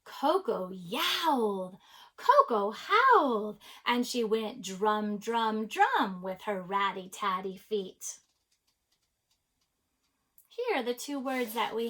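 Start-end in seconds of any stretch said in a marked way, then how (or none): 0.1-8.2 story read-aloud. A narrator's reading. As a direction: read to children, leaning on the sound words. Reads a picture book aloud.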